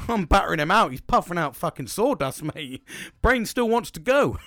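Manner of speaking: loud, laughing punchline; laughing through it. Real, not acted. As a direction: crack up while telling the crude bit.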